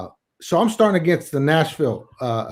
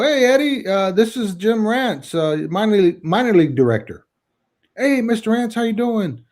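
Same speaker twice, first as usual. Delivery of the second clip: retold phone greeting; 6 semitones higher than usual.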